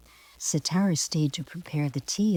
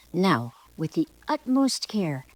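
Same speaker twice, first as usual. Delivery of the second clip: high, slow, grand command; squawked order; 7 semitones higher than usual. Acted. Peacock instructing the girl to pluck plumes, slow grand squawk. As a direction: order her slowly like royalty. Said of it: "he squawked".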